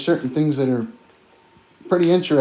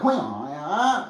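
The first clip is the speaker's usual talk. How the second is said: imitating Chinese speakers; 4 semitones higher, 5 dB quieter, slower than usual. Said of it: "They're like".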